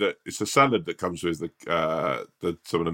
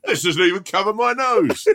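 laughing; 11 semitones higher, 3 dB louder than usual. Real, not acted.

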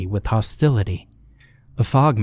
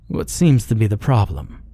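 gentle. Acted. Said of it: "The man's gentle tone".

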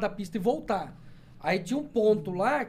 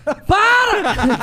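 loud, high yelled "Para!"; an involuntary shouted tic; sudden shout; 11 semitones higher, 8 dB louder than usual. Real, not acted. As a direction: blurt it out as a loud yell. Sudden tic outburst in chat.

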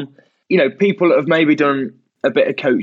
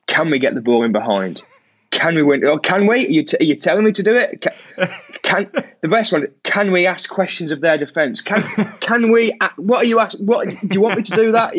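coaching question tone; 3 semitones higher than usual. Retold or imitated. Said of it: "it will be like".

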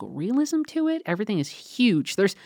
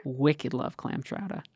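put-on Boston accent; 3 semitones lower, 6 dB quieter, slower than usual. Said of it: "cartoon character version of a Boston accent".

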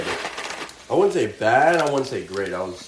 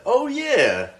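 high mock reply; 13 semitones higher, 3 dB louder than usual. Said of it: "He's like".

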